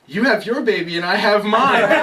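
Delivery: lovingly. Retold or imitated. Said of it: "lovingly say".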